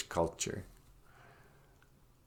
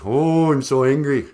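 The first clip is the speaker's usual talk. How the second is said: lightly voiced ranting protester; hammed-up cooped-up anger; mock angry protester; 3 semitones higher, 4 dB louder than usual. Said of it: "Are you angry?".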